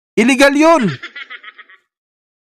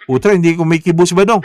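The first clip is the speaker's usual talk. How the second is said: laughing aside; faster than usual. Acted. Guest will not wake.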